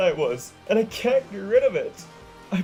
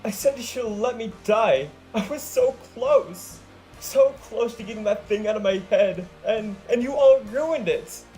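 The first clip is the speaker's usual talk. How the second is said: high, loud tearful yell; sobbing shout at her friends; 6 semitones higher, 5 dB louder than usual. Acted. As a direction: shout through held-back sobs. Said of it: "she shouted, choking back sobs".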